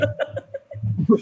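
a breathy unvoiced giggle. Real, not acted. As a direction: giggle at how odd it is. Laughs at random coincidence.

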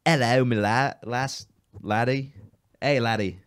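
a bad stage Irish greeting; bad Irish accent. Teasing his cohost with a terrible Irish accent. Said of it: "You're terrible at this".

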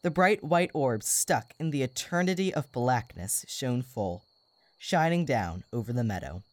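put-on calm storybook reading for kids; story narration. A narrator's reading. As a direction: read it like a bedtime story. Reads the story aloud.

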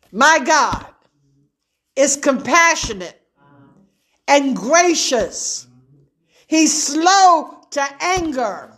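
slow, measured reading of the psalm; scripture reading. Acted. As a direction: lay each phrase down with pauses. Reads psalm slowly.

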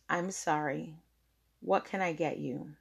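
नरमी से माफ़ी; softened apology. Retold or imitated. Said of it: "took a deep breath and exhaled".

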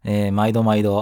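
blocked nose from hay fever; nasal voice. Real, not acted. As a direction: speak with a stuffy nose. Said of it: "鼻声で".

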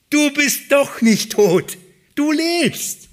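high, loud cry of joyful disbelief. Acted. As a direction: shout it out, overwhelmed that he lives. Disciples meeting risen Jesus.

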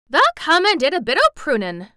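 high, loud Yorkshire lad; excited country boy; crying out. A narrator's reading. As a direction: burst out in excited realization. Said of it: "cried Dickon".

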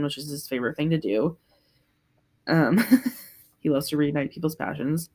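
usual speaking voice

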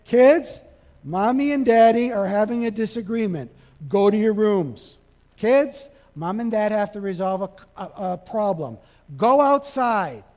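put-on firm announcement sending kids out; calling the kids. Parent sending kids away.

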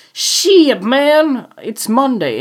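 squeaky high mock groan; high exasperated quote. Cursing the day to viewers, high whine. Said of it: "So I'm like".

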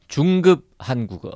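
chipper 1950s ad. Pretend. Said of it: "옛날에 광고하는 것처럼".

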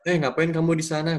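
mock-strict telling off; stern disciplinarian. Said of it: "gue bilang gini".

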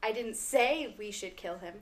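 "say" lifted and stressed, the rest level. Shown as a demonstration. Friend demos the example sentence with stress on "say". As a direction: lean on "say" as if it was only implied. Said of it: "if you emphasize on one word".

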